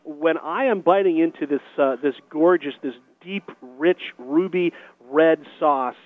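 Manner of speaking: talking while chewing a bite; words round a mouthful of sandwich; mouth full. Real, not acted. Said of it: "I'm going to dig in".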